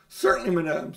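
cunning. Acted. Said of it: "said Uncle Andrew cunningly".

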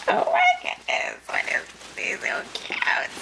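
high squeak dropping to a whisper; overcome with delight. Real, not acted. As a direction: whisper it, overwhelmed by cuteness. Overcome by a cute gift.

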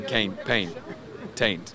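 "Can't", "paint", "taint" all on one drawn vowel; vowel drill. Shown as a demonstration. Tom drilling the vowel the coach taught him. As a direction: drill the rhyme slowly. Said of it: "always going".

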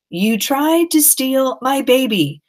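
accusing anger. Acted. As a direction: spell out the betrayal, furious. Annie accuses the goblin.

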